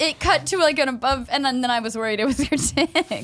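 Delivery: laughing nervously while telling; nervous giggle through words. Real, not acted. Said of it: "That was a nervous laugh".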